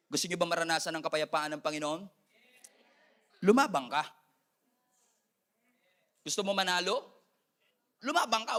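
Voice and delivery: ordinary delivery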